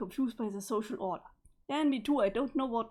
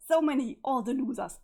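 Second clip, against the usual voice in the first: gleeful boast; 6 dB louder than usual. Acted. Gleeful boast, much louder.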